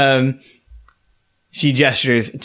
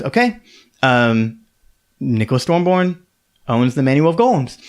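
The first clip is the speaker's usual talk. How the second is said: auctioneer voice. Acted. Auctioneer announcing the winner to the room. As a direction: call the bid like a lady auctioneer. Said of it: "And she goes".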